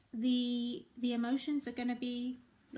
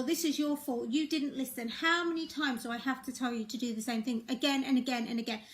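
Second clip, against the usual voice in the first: exasperated blaming. Shown as a demonstration. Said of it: "Do you feel the difference in that?".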